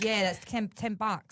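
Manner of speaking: lightly imitated Cockney accent. Podcaster showing how a friend says bucks, Cockney accent. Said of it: "when Fred says it with a Cockney accent".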